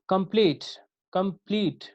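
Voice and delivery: कंप्लीट with कम light and प्लीट stressed; stress on second syllable. Shown as a demonstration. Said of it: "यहाँ कंप्लीट पे stress है". (कंप्लीट में प्लीट पर ज़ोर)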